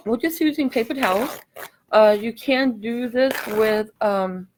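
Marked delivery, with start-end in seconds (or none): 1.9-4.5 talking with a dry mouth. Real, not acted. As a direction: speak through a parched mouth. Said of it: "my mouth is so dry now".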